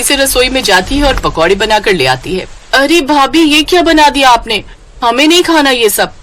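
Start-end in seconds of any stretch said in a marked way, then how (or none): 2.7-6.1 sister-in-law rejecting the pakodas, higher and whiny; whiny refusal. Acted. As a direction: turn up your nose at the food.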